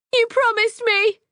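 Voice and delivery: very high, slow, loud tearful cry; high anguished plea; desperate plea. Acted. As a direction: drag the words out in despair. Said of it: "she continues".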